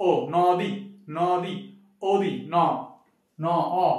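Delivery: নদী split into ন and অ, each sound said on its own; sounding out the word. Shown as a demonstration. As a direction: pull apart নদী to show the অ after ন. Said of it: "অটা আমার কি এখানে উচ্চারণ হচ্ছে?".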